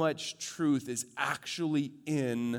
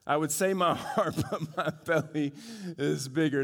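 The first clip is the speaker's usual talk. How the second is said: laughing. Real, not acted. Laughing at the joke.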